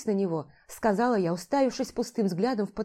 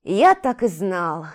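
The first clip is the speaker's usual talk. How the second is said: resigned; 7 dB louder, much slower than usual. Acted. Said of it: "как-то обречённо заговорил Калим".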